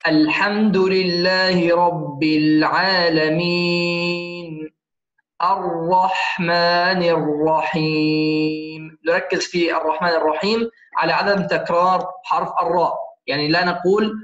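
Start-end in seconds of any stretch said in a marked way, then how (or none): 0.1-9.0 slow, measured tajweed recitation with long held vowels; Quran recitation. Shown as a demonstration. Teacher recites the verse for students, slow measured recitation. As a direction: recite it slowly, drawing out the final syllable.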